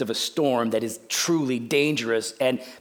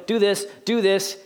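exasperated parent, rising higher and faster; building to yelling; 6 semitones higher, 3 dB louder, faster than usual. Acted. Dad repeating a chore to his boy, building to a yell. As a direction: start firm, get more heated with each repeat. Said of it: "And then eventually I'm yelling".

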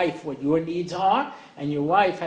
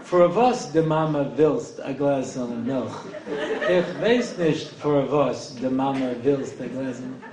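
put-on slow, laughing Yiddish-accented English; playful Yiddish lilt, chuckling through it; mock Yiddish accent; 2 semitones lower, slower than usual. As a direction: stretch it out in a hammed-up Yiddish accent. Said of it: "English with a bad accent".

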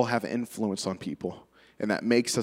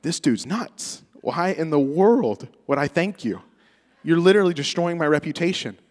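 inner disbelief; 5 semitones higher than usual. Retold or imitated. Teen thinking his mentor is crazy, incredulous. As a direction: scoff silently at the nutty mentor. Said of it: "but I'm like".

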